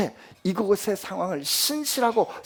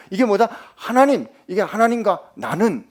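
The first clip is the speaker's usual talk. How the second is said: ordinary delivery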